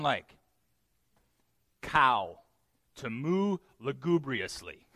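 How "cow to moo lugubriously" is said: drawn-out mournful cow moo. Shown as a demonstration. Preacher shows the congregation what complaining sounds like, mournful mooing. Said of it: "Let me show you".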